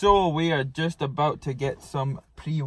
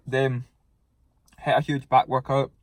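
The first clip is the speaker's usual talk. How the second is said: mouth full. Real, not acted. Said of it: "I shouldn't really speak with my mouth full".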